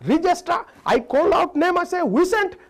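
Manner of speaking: put-on high, loud insisting Indian-accented voice; mock Indian teacher. Indian teacher insisting to the boy, loud high accent. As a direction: insist loudly with an Indian lilt.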